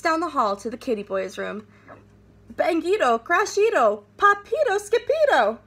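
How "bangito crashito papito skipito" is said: calls climbing higher and louder; crashing noise chant; rising loud calls. A narrator's reading. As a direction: build to shouts.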